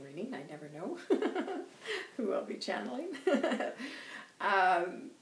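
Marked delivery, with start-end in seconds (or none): 1.0-2.1 a high amused chuckle; light laugh. Real, not acted. Host laughing at who she channeled. 3.1-4.4 a high amused chuckle; light laugh. Real, not acted. Host laughing at who she channeled.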